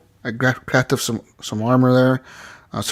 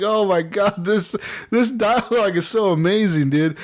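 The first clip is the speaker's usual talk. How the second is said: excited; 6 semitones higher than usual. Retold or imitated. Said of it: "I was like".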